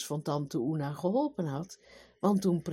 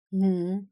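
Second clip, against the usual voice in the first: grumbling hm; 2 semitones higher, 5 dB louder than usual. Acted. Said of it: "bromde de koning".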